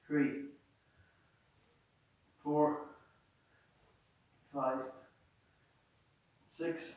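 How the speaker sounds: counting reps mid-crunch; doing sit-ups. Real, not acted. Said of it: "scissors crunch".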